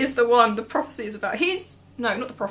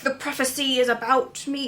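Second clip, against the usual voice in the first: bad Scottish accent; 3 semitones higher than usual. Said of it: "I can't do a Scottish accent".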